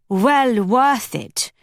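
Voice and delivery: put-on slow, lightly Flemish-accented charm; drawn-out words in a light Flemish accent. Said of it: "he said in that Flemish accent".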